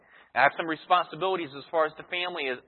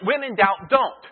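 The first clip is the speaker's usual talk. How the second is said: mock parental counsel; 4 semitones higher, slower than usual. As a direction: snap the word "don't" like a parent ending the discussion. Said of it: "same counsel that perhaps your parents gave you".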